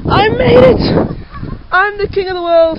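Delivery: triumphant. Real, not acted. Reaches the top of climb.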